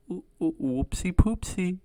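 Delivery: high, slow, silly little oops voice; sheepish coworker. Retold or imitated. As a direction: stumble into a high cutesy admission. Coworker owns up to a mistake.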